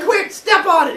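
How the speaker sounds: high, loud hurried order; panicked urging. Acted. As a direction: urge it, half laughing. Urging to squash baby.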